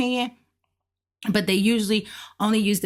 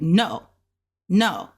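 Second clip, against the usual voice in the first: short NO with a firm fall; like a stop. Shown as a demonstration. Teacher likens the fourth tone to a command, stopped falling NO. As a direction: say NO as an abrupt stop. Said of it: "Just like a stop".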